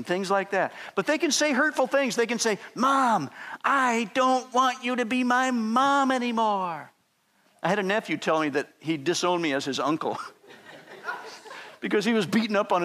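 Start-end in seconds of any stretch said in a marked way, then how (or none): 2.7-6.9 put-on slow, pouting child's whine; hurt kid. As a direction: play a wounded little kid. Child tells mom hurtful thing.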